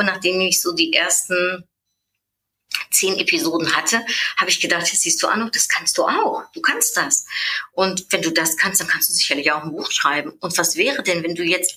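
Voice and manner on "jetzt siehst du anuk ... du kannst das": high, airy, bursting pep talk to herself; excited self-encouragement. Retold or imitated. Woman telling herself she can do it, high excited whisper. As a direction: cheer yourself on, breathless and high.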